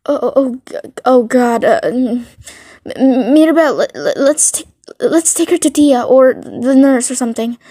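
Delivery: acted panicky stutter, tripping over first sounds; flustered stammering. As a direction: stumble over the words, mildly alarmed. Flustered friend finds listener hurt.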